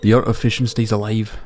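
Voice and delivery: hearty Scottish-tinged sailor brogue; Willie, Scottish accent. Acted. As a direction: play an old fisherman with a makeshift Scottish accent. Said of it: "doing a Scottish accent for Willie".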